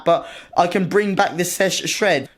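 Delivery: slow, leaning hard on bring; slogan stress. Acted. Naming his series to viewers, slow with bring stressed. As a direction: sell the series name, punching bring.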